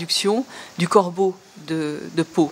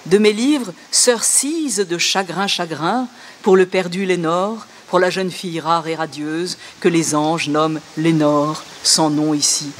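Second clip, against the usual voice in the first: mock poem reading. Shown as a demonstration. Lecturer reading Google's translation aloud, amused mock recital. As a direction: read the Google version with a wry grin. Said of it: "je vais vous lire un peu plus longuement".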